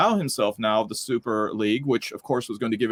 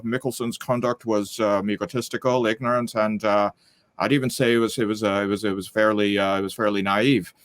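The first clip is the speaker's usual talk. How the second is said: lightly put-on Northern Irish accent, a bit lower; 3 semitones lower than usual. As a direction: attempt a halting, amateur Northern Irish accent. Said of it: "that's my best Northern Irish, uh, accent".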